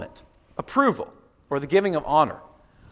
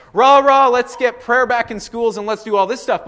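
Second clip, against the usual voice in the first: mock rally cheer; 5 semitones higher, 4 dB louder than usual. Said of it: "be like".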